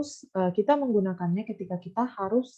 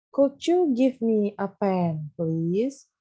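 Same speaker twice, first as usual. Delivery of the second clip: Could you give me a pen said slowly, word by word; slow, careful teacher read; slow model reading; much slower than usual. Shown as a demonstration. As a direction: read it slowly for beginners to copy. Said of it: "Miss bacain ya".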